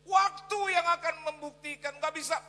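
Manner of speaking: high, very loud drawn-out proclamation; full-force preaching. Real, not acted. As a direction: belt it out to the congregation.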